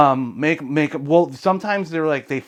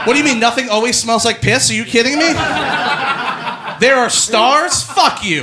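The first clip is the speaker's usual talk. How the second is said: higher, louder, cracking up as the animal; laughing caged animal; 9 semitones higher, 5 dB louder than usual. Pretend. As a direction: play the outraged caged animal through laughter.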